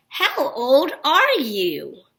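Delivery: put-on "How old are you?" drawn out slowly as a question. Shown as a demonstration. Teacher demonstrating a question mark with "How old are you?", questioning voice. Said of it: "I kinda ask in a question voice".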